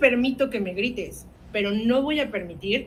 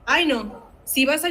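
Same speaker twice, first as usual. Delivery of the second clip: mocking adult; 3 semitones higher, slower than usual. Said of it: "Con palabras tan hirientes como".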